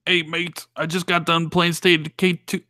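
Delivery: half-hearted mock British accent; attempted UK accent. Co-host testing the show intro, badly faked UK accent. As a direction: have a shaky go at a British accent. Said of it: "we'll intro the show in those accents".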